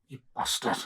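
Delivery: imitating a breathy, unvoiced curse; stifling laughter. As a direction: mutter it softly, mimicking someone holding back a laugh. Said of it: "trying so hard not to laugh".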